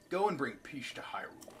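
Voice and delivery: lightly voiced, whispery old man; a hint of hushed elderly sage; old man's voice. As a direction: send the hero off as the old sage. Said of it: "do this in the old man's voice".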